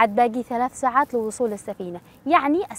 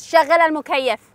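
raised, louder insistent command; angry demand; 5 semitones higher, 6 dB louder than usual. Acted. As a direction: push the order up high and loud. Paying passenger repeats order to driver.

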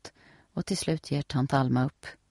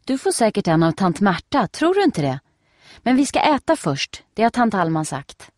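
put-on higher, louder eager little girl; excited girl; 5 semitones higher, 5 dB louder than usual. A narrator's reading. Nelly tells Steffi about the swimsuit, eager and high. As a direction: bubble over with excitement.

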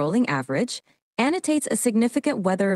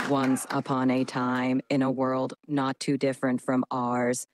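low, dramatic robot voice; robotic voice; 6 semitones lower, 5 dB quieter than usual. Shown as a demonstration. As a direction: speak like a metallic cyborg. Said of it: "Initiating dramatic robotic voice".

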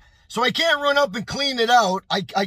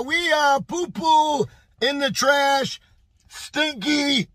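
simplified English; 4 semitones higher, slower than usual. Retold or imitated. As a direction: spell it out like talking to a child. Explaining to French speaker.

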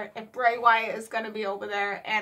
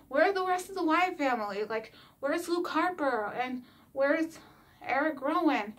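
quick, higher mock dad voice, puzzled; playfully imitating her dad asking about the old group; 4 semitones higher than usual. Imitating a baffled dad. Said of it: "he was like".

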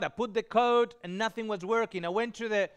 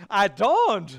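louder, laughing reply; laughing retort; 7 dB louder than usual. Retold or imitated. Answering the lady with a laugh, louder.

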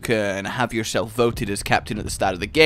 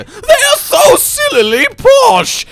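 laughing shout; 10 dB louder, slower than usual. Real, not acted. Delighted at posh voices.

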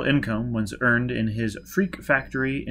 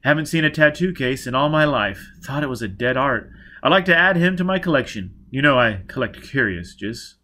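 lightly voiced doctor, louder and keen; louder, slightly raised character voice; Baker, eager collector; 3 semitones higher, 6 dB louder than usual. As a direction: speak as a curio collector, keenly interested.

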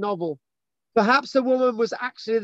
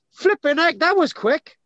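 mock surprise; 7 semitones higher, 4 dB louder than usual. Mock shock at quick encounter.

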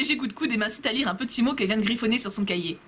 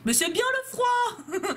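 high, slow, gushing; dreamy friend; 9 semitones higher, much slower than usual. Acted. A friend gushing about autumn to the group, slow and high. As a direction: swoon over autumn, drawn out and high.

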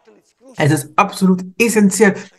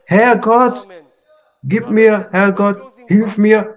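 pleading prayer; 3 semitones higher, slower than usual. Retold or imitated. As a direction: call out to God, mildly imploring. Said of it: "und du fährst fort zu fragen". (leicht flehendes Gebet)

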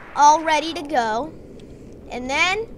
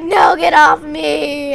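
desperate yell; 7 dB louder, slower than usual. Acted. Jeremy fighting off zombie.

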